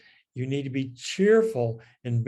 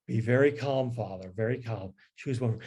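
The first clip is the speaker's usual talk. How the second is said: calm. Retold or imitated. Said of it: "Francis says".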